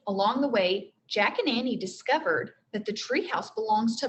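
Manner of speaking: expressive read-aloud narration; teacher reading a chapter book to the class; story reading to children. A narrator's reading.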